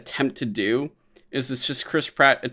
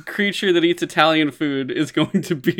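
high, louder, incredulous complaint; exasperated rant; 5 semitones higher, 4 dB louder than usual. Retold or imitated. Fan complaining about the casting, exasperated outburst. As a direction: hit the first word high and loud in disbelief.

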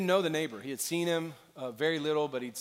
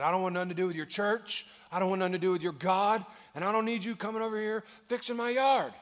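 raised, higher-pitched angry refusal; angry old man; 5 semitones higher, 4 dB louder than usual. Retold or imitated. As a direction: throw the neighbor off the porch, fed up. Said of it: "the guy got mad at him".

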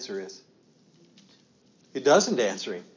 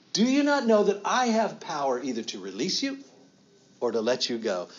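indignant Pilate; 3 semitones higher than usual. Acted. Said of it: "so he doubly says to Jesus".

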